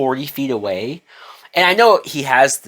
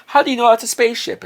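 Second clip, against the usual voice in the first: unconvincing denial; 9 semitones higher, faster than usual. Retold or imitated. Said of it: "doing a horrible job trying to cover this up".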